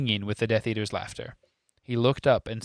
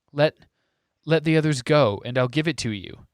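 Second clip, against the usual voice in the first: desperate; 4 semitones higher, 4 dB louder than usual. Acted. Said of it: "said Harry desperately".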